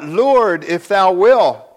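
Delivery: a leper crying out to Jesus to be made clean, loud and pleading. Acted. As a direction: call out to Jesus for mercy. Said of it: "And he cried out".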